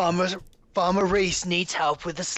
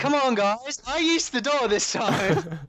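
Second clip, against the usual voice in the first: indignant shout; 7 semitones higher, slower than usual. Real, not acted. Indignant call to teammates.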